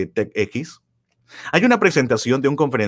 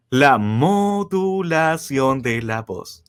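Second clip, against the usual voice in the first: slow announcement; 2 semitones higher, much slower than usual. Shown as a demonstration. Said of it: "anuncia el tema, lento".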